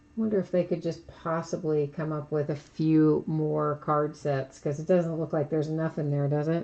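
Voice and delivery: soft, dry, sarcastic tone. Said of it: "That's sarcasm".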